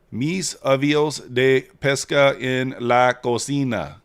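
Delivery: slow, clumsy Spanglish accent; terrible Spanglish. Real, not acted. Streamer trying Spanish for his chat, terrible Spanglish. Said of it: "That's terrible Spanglish?".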